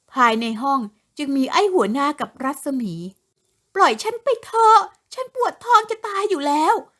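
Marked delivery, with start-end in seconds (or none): 3.8-6.8 imploring, begging voice, high-pitched. Rasami, left in the room with the chief, pleading. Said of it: "รัศมีอ้อนวอน".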